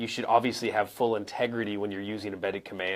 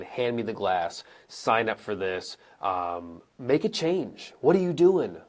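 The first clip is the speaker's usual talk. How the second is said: blunt, direct orders; bark-free, plain commands building to an emphatic challenge; slower than usual. Acted. Coach giving examples of being too direct, direct commands. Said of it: "in a very direct way".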